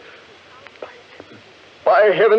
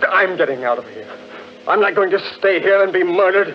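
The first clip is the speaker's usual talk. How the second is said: panicky; 4 semitones higher than usual. Acted. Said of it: "Easy, Crane. Keep your head, man".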